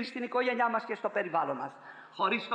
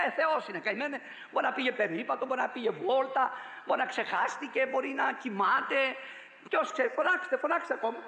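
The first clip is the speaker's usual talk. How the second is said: preacher mimicking Elijah's scornful jeer, a little raised; mocking taunt; 3 semitones higher than usual. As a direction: tease them lightly, sneering that their god might be asleep. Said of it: "Ο Ηλίας άρχισε να τους κοροϊδεύει".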